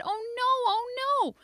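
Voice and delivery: put-on high loud child's wail of alarm; girl shouting that grandpa knocked her tooth out; panicked shouting. A narrator's reading. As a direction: yell it running all over. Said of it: "I shouted".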